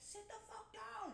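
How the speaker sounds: laughing through a mock friend quote; high, laughing and slow. Friends urging her to relax.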